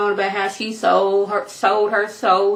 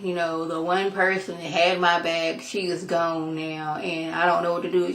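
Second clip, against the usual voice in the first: downcast confiding; 3 semitones lower, 6 dB quieter than usual. Acted. Acted Michael mourns his lost ally.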